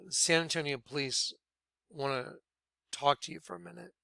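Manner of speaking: soft, understated officer quote; discreet request. Retold or imitated. San Antonio police wanting a word, quiet and discreet. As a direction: say it quietly, keeping it between you.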